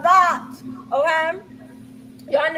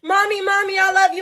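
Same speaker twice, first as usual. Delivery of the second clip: put-on high, eager child calling mommy; clingy child voice; 6 semitones higher than usual. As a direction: call out like a needy toddler. Mom voicing her clingy child.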